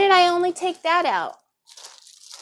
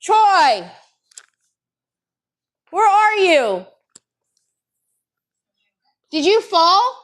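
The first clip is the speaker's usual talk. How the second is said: loud call across the house; 5 semitones higher, 4 dB louder, slower than usual. Real, not acted. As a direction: call out to someone in another room. Calling out for husband.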